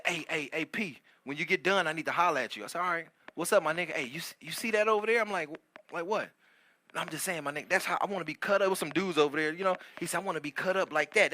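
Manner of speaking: soft, confidential murmur; hushed. Retold or imitated. Guy in the locker room talking softly to his buddy.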